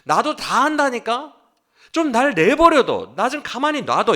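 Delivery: an exasperated man telling his friends to leave him alone; exasperated Job. Acted. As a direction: Job snapping at his friends, loud and fed up. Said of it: "지금 그 말이에요".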